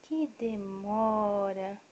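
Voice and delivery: very slow, stretched-out complaint; hammed-up long sigh of waiting; drawn-out mock impatience. Real, not acted. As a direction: stretch every syllable of the wait.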